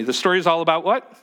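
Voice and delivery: rising fast prompt for the congregation to answer; call and response prompt. Real, not acted. Pastor prompting the congregation to answer, quick and rising. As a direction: toss the question out, quick and lifted. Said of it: "Can you say that with me?".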